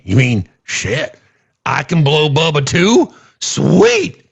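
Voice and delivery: slow, wondering mock drawl that jumps up on the last word; lightly voiced redneck, delighted; closeted bigot voice. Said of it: "the ability to say".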